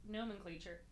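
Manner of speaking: hiccuping while reading; reading through hiccups. Real, not acted. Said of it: "I have the hiccups".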